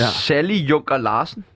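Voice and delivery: slowly stretched full name; drawn-out name. Shown as a demonstration. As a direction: draw the name out to sound long. Proposes a long name. (langtrukkent navn)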